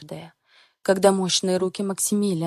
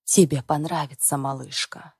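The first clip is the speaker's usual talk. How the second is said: low coaxing man; 4 semitones lower than usual. Acted. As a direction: lower husky male voice. Husband voiced coaxing her.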